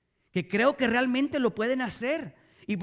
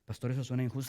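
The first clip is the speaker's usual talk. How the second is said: oyente que protesta; 8 semitones lower, 6 dB quieter, much faster than usual. Retold or imitated. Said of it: "objeción imitada del oyente".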